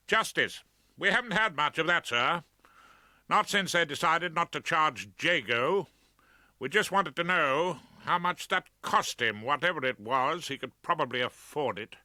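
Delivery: put-on a keen young son, bitter about the police; young Roger Fabian. A narrator's reading. Son tells the barrister, indignant and eager. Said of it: "Thus spoke young Roger Fabian".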